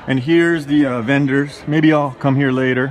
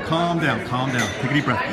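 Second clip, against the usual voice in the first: talking himself down, lower and softer; calming himself down; 5 semitones lower, 5 dB quieter than usual. Real, not acted. Nervous first-time streamer calming himself on camera, lower and softer.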